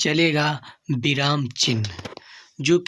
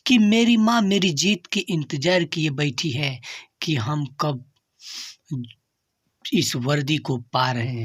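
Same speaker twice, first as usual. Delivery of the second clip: verse recitation. Acted. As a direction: recite each line deliberately, stretching the words. Recites motivational verse before the lesson.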